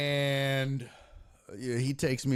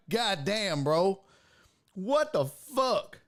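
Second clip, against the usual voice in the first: exasperated, higher-pitched retold outburst; livid; 5 semitones higher, slower than usual. Motorist almost blacked out at the excuse, livid. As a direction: draw out the curse in acted disbelief. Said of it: "I was just livid".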